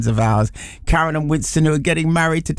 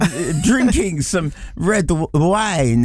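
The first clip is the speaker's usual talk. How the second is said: mock French accent; slower than usual. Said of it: "speaking like this".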